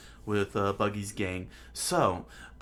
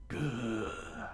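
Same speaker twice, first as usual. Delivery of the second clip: drawn-out throaty snarl; lion growl; 5 dB quieter than usual. Acted. Lion threatens the guard dog, growling. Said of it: "the lion growled".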